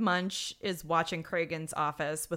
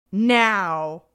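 one very loud word, imitating an angry boss; retold yelled order; 11 dB louder than usual. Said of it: "yells for Stabler".

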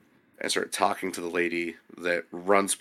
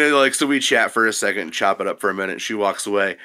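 ordinary talk, nothing marked

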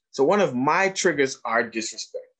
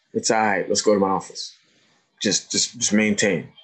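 lower, steady soothing voice; calm reassurance; 4 semitones lower than usual. Retold or imitated. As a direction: settle an upset student down gently. Retells calming an upset pupil.

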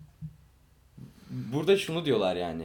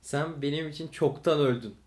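mock dramatic; 2 semitones higher, 6 dB louder, slower than usual. Mock dramatic dismissal of friend.

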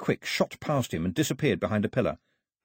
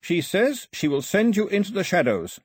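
put-on higher, earnest young translator voice; Carley's voice; 9 semitones higher than usual. A narrator's reading. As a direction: voice Carley relaying the old woman's words.

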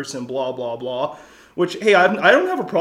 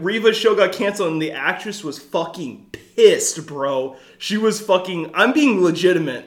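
sarcastic voice; 2 semitones higher than usual. Real, not acted. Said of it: "I know I'm using my sarcastic voice".

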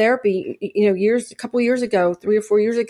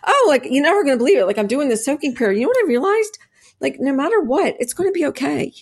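excited retelling; 2 semitones higher than usual. Retold or imitated. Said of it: "And I was like".

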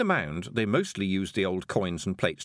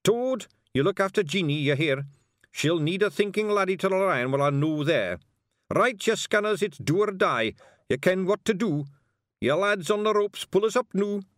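high, loud Scots commander; Scottish Feegle chief; 11 semitones higher, 4 dB louder than usual. Acted. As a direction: bark orders at the troops. Rob giving orders.

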